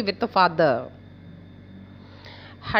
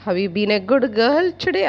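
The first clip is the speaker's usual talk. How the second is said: gentle; 3 dB louder, much faster than usual. Shown as a demonstration. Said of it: "In a very gentle way".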